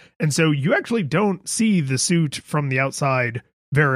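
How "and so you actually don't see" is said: plain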